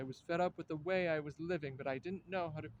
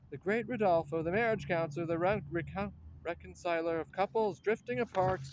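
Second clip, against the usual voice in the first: mocking loud praise; 7 dB louder than usual. Mocking the reconciler to his face.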